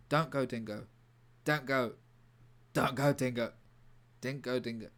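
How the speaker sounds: punchy, lightly acted Cockney plea; Cockney accent. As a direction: plead with a hint of Cockney. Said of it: "say in his Cockney accent".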